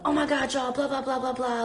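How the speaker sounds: high, excited gushing; hammed-up squeal of excitement; mock freaking out. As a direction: gush like you're overjoyed. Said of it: "I'm freaking out going".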